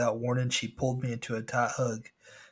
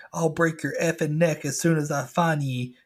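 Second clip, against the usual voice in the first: louder, higher pirate growl of a threat; threatening pirate; 5 semitones higher, 5 dB louder than usual. Retold or imitated. Pirate animatronic hunting the narrator's boat. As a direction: menace the sailor like an angry pirate.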